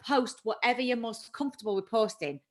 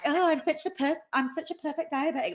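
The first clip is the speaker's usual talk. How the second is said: higher-pitched mock boast; mock showing off; 6 semitones higher than usual. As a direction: imitate someone smugly showing off online. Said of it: "I feel like they're showing off".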